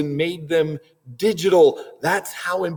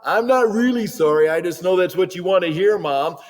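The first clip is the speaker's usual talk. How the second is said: insincere sorry; 2 semitones higher than usual. Pretend. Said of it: "Your tone of voice says".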